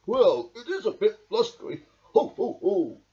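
jolly laughing ho ho ho; hearty chuckle; chuckling Badger. A narrator's reading. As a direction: laugh off the storm. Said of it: "chuckled Badger".

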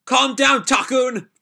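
high, loud call to calm him; high urgent shout. Acted. Calling out to Nataku.

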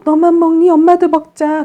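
put-on high, loud sing-song talk to a baby; playful teasing. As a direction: play a mother cheerfully demanding her share. 엄마가 아기에게 장난스레 말함.

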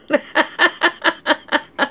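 evenly pulsed, high laugh. Real, not acted. Host after saying they're back to normal, laughing. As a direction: laugh in short, regular bursts.

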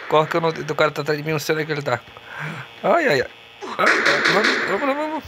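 panicked, fast and frantic; being chased. Real, not acted. Enemy behind him while running.

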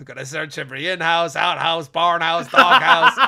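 hammed-up movie rant breaking into laughter; building mock shout. Hammed-up film quote, building to shout.

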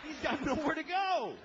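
high mock-pitiful punchline. High pitied line to the crowd about the married man. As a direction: pitch it up with mock pity.

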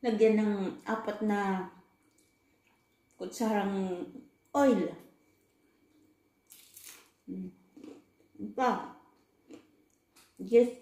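words muffled by food; pausing to swallow; talking while chewing. Real, not acted. Seen 0: Holds food at mouth, bites and chews while speaking.

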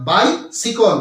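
বাইসিকল said as bai-si-kol, the right way; correct pronunciation. Shown as a demonstration. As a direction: say বাইসিকল with a short si and kol at the end. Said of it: "বাইসাইকেল নয়, বাইসিকল". (সঠিক উচ্চারণ বাইসিকল)

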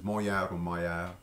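"moyard or moyard" slow, first as mo-yard then as mo-air; two pronunciations. Shown as a demonstration. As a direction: slowly contrast the two ways of saying "moyard". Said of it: "different pronunciations".

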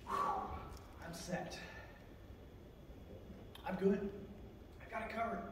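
hushed mock relief, with long pauses; relieved self-satisfaction. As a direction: sigh out, then soft contented asides. Acts out someone financially secure, relieved.

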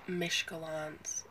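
"mishkalans" said with a sh sound; "mishkalans", mish-ka-lans, slowly; wrong old pronunciation; mispronounced miscellaneous. Shown as a demonstration. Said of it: "I thought that this word was pronounced".

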